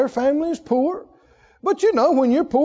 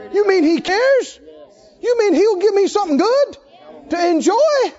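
wide-eyed, rising mock disbelief, laughing; amazed disbelief; 5 semitones higher than usual. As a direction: act out stunned surprise at good news. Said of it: "We thought".

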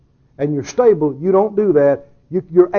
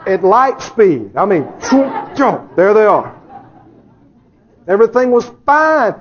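ordinary talk, nothing marked

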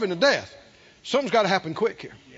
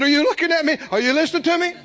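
raised, louder urgent questions; insistent demand; 7 semitones higher, 5 dB louder, faster than usual. Retold or imitated. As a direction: demand her full attention. Preacher confronting sick woman.

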